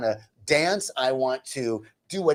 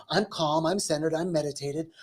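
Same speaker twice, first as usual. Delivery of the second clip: softer, put-on calm; acting spiritual; 3 semitones higher, 6 dB quieter than usual. Man posing as the spiritual one, feigned calm. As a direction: feign centered serenity. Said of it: "acting like the spiritual one".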